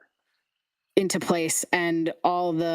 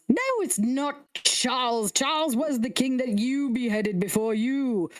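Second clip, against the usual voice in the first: high flustered head; 5 semitones higher than usual. Acted. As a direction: ramble in a high muddled voice. High head rambling names.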